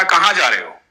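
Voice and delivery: put-on a boy warning the old man to stop; young boy. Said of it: "बच्चे ने कहा".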